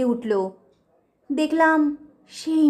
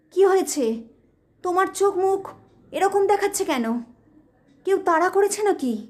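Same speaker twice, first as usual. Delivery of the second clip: startled wife asking; 4 semitones higher than usual. Acted. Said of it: "Urmila আমাকে দেখে চমকে উঠল".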